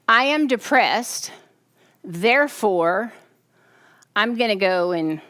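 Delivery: slowed, deliberate demonstration; slow demo. Shown as a demonstration. Preacher demonstrating to the congregation, slow and deliberate. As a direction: act out the depressed reasoning slowly. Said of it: "so let's try this".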